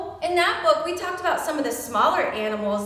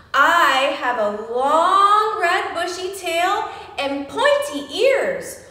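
fox riddle; 3 semitones higher, 4 dB louder, slower than usual. Pretend. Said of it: "This one's a fox".

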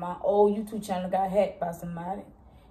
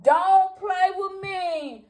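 sassy catchphrase; 9 semitones higher, much slower than usual. Real, not acted. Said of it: "I'm a little tipsy".

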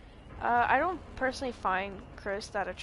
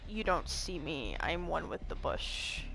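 mock stealthy; 6 semitones lower, 6 dB quieter than usual. Hiding from killer in bush.

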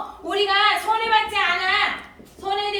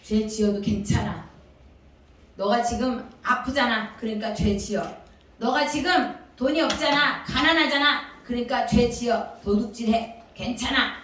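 lightly voiced tempter, mostly low; tempting devil; 6 semitones lower than usual. Devil telling children that sinning is okay, lightly tempting. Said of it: "이런 존재가 이렇게 얘기하는 거야".

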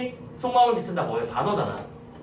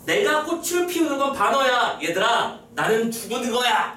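slow, higher-pitched acted declaration; voice of the tree; 4 semitones higher, slower than usual. Teacher as the tree telling kids its blossom is irony, declaiming. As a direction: speak as the tree, drawn out. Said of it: "라고 말하는 걸".

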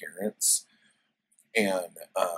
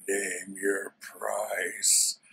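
Conan voice; much slower than usual. Retold or imitated. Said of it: "he's like".

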